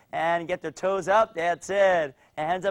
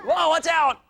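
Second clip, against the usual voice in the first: higher-pitched playful alarm; excited warning; 11 semitones higher, 4 dB louder, slower than usual. Pretend. Coach warns kids in throwing drill, excited warning. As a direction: call out a mock warning.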